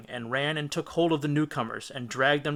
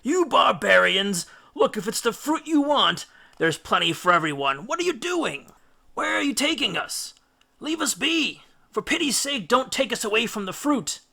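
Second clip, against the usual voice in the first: much higher, pleading shriek; frantic protest; 8 semitones higher, 4 dB louder than usual. A narrator's reading. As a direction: beg and shriek as you are hauled away. Drugged Greeks protest being dragged.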